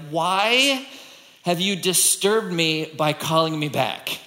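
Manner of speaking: lightly voiced weary complaint from the dead; disturbed Samuel. Voicing Samuel's first words, roused.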